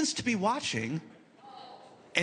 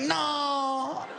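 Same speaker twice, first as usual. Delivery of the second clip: deadpan joke; 9 semitones higher, much slower than usual. Retold or imitated. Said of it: "I was like".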